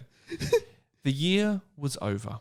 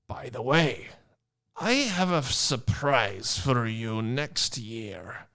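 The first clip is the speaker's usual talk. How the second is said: slow, lightly voiced Hagrid; a hint of the half-giant teasing; slower than usual.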